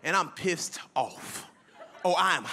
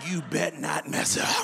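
mock warning; 4 semitones lower, slower than usual. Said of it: "I said".

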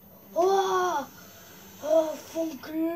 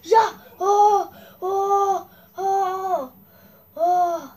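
high, loud laughing cheer; 6 semitones higher, 8 dB louder, much slower than usual. Real, not acted. Triumphant laugh after win. (lachender Jubel)

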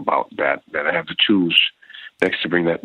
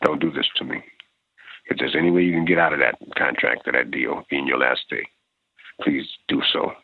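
pleading; 2 semitones lower than usual. Retold or imitated. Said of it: "I would say and plead to him".

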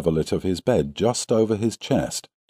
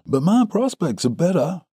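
high-pitched, heated retort; 11 semitones higher than usual. A narrator's reading. Suitor outbids his rival, heated. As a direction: argue back eagerly, voice lifted high. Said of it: "said the other warmly".

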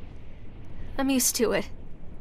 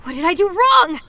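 panicked shouting; 7 semitones higher, 6 dB louder than usual. Acted. Panic after near disaster.

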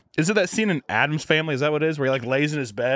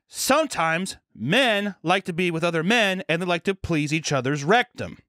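imitating teacher; 5 semitones higher than usual. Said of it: "there's a health teacher who was".

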